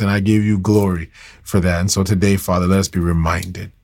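earnest, steady spoken prayer. Acted. Preacher praying over his listeners, earnest and steady. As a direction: pray it sincerely to God.

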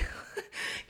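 soft laugh at herself; quiet, breathy burst of laughter. Real, not acted. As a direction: laugh off your own wail. Laughs at her own plea.

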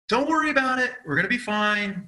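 lightly acted don't-panic tone; retold reassurance. Husband replays soothing his upset wife.

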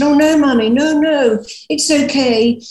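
put-on a light take on an anxious young son; young son pleading. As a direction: quickly reassure Mummy like a little boy. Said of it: "and he said".

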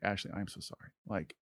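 soft, remorseful apology; subdued, emotional apology; tearful apology, retold. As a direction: retell a heartfelt sorry, softly. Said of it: "I start to cry".

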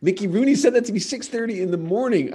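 can't believe what just happened, retold; flustered mock shock at an early morning insult; stunned disbelief. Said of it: "I was like".

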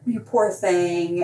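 mock pity. Shown as a demonstration. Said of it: "or it can mean".

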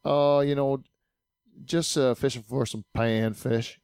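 imitating a slow southern drawl, lightly. Fisherman on the dock answering, in a mild imitated southern drawl. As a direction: drag the vowels out like a Southern fisherman, easy and unhurried. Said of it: "said like that".

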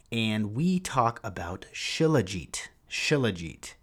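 slow, dramatic hushed whisper. Acted. Podcast host to listeners, revealing the topic in a hushed whisper. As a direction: breathe the name like a secret.

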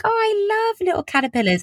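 high-pitched, adoring squeal of a quote; gushing child. Retold or imitated. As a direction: coo it very high, like a kid besotted with bugs. Acting out herself as keen child.

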